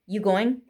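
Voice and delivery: "going" as go-in, rising question; dropped g. Shown as a demonstration. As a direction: ask "You going" casually, clipping off the g. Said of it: "it becomes I N instead of I N G".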